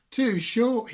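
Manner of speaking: high, loud taunting snake; mocking snake voice. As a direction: jeer at the little creature. Snake mocks Beaky.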